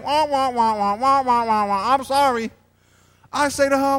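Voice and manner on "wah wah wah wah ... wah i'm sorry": wailing, blubbered apology; hammed-up sobbing wail; mock crying. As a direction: imitate someone bawling through an apology. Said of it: "She starts breaking down crying".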